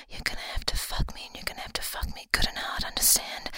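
rushed whisper; urgent whisper. Acted. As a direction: hurry through it, whispering.

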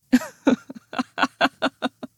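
long, high, sneering laugh; drawn-out cruel laugh; scornful laugh. Acted. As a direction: laugh at them with contempt. Laughs after insult.

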